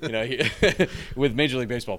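laughing through the words; breaking into a high giggle; trying not to laugh. Real, not acted. Laughing mid-sentence.

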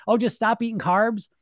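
high-pitched sarcastic echo of advice; mock breezy advice. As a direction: toss it off as if it were easy. Mocking the simplistic diet advice.

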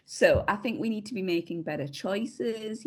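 gently preachy, lightly put on; imitated lecture. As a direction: imitate a patient talking-to. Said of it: "I love that he's like".

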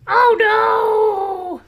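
very high, loud squeal of alarm; squealing pig. Acted. Pig panicking as the wolf huffs, high squeal. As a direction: shriek like a panicked piglet.

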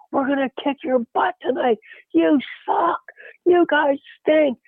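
high-pitched mock heckling yell; imitated jeering fan. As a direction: jeer at the visiting team, drawing out the end.

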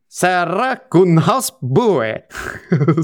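drawn-out mock Norwegian lilt; Norwegian accent. Podcast host credits a Norwegian listener's feedback, slow put-on Norwegian accent. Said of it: "doing the Norwegian thing".

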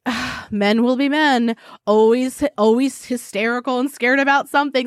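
mildly dismissive mock wives. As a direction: brush off their fear, lightly acted. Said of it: "they're completely brushing off their fear".

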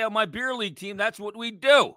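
high-pitched mocking beer-league boast; Pat Egan. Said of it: "get that plug Pat Egan in here".

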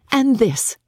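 a lightly ironic sister; wry private reflection; Elizabeth musing. Acted. Elizabeth muses alone.

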